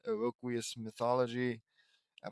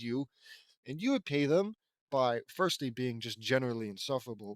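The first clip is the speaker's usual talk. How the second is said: sarcastic praise; 3 dB louder than usual. Real, not acted. Sarcastic praise of rude guests.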